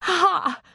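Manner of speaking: a wet, teary sniff-laugh; half sniff, half laugh through tears. A narrator's reading. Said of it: "she sniffed".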